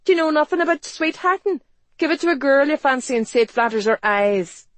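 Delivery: high, loud scolding advice; shrill, impatient market woman; exasperated demand. A narrator's reading. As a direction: lecture the hopeless man loudly. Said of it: "she demanded".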